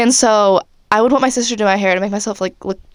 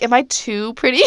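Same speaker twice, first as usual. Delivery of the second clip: laughing mock question. Mocking her past insecure self.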